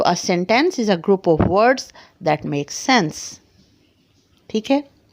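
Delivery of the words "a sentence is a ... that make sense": very slow, word by word; measured teacher dictation; dictating the definition. Shown as a demonstration. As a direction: dictate it slowly for notes. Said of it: "definition for the class".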